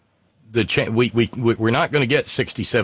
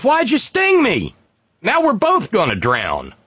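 much higher and slow, wailing in betrayal; dying frog's cry; 9 semitones higher, slower than usual. Acted. Telling the scorpion fable on air, a high, slow anguished frog. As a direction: let the frog squeal out the betrayal slowly.

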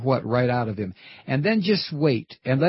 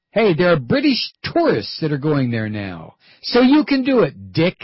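taunting challenge. Real, not acted. Host taunting Cheney on air.

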